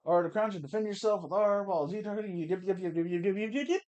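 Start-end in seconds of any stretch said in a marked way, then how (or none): 2.5-3.8 rapid-fire yeps, rising. Acted. Rattling through game text.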